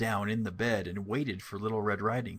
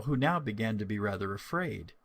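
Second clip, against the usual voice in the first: ordinary delivery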